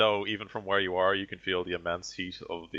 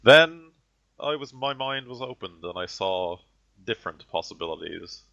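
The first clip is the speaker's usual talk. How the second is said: spat-out outburst; 3 semitones higher, 5 dB louder than usual. Acted. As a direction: spit the word out in disdain. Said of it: "he sort of spits the word out".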